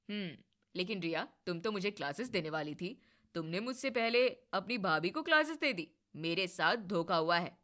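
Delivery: lightly voiced husband, teasing surrender; husband's voice. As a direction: give up playfully to sister and wife.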